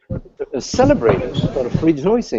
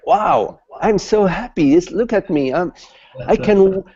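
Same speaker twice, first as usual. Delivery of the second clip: much higher, gleeful voice bursting with relief; elated freed man; 8 semitones higher than usual. Acted. Freed man shows his friend he can jump, higher and gleeful. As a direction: bounce each "I can" up like a kid let loose.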